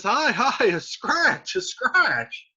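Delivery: sarcastic dismissal. Acted. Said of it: "Mercutio says".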